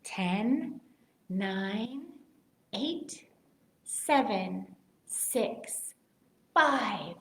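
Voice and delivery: quiet countdown. Shown as a demonstration. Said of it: "Ready for the countdown".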